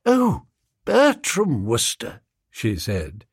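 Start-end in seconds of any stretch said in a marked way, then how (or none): 0.0-2.2 lightly brightened, higher headmistress voice; bright recognition. A narrator's reading. Headmistress feigning familiarity with the name, brightly. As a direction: give the name a bright, slow lift. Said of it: "nodded brightly".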